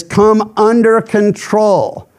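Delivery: ordinary talk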